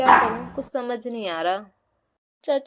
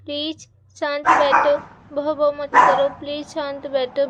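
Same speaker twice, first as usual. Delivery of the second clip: louder, pleading with the dog to stop; 4 dB louder than usual. Acted. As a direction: beg the puppy loudly to hush. Child scolding the barking dog. (ज़ोर से मिन्नत करते हुए)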